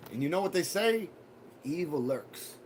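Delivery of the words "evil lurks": soft, low, ominous warning; spooky low threat to the trolls. Acted. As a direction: drop into a creepy hush.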